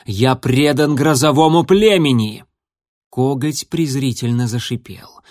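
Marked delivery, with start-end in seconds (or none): 0.0-2.4 indignant shout. Acted. Continued shout.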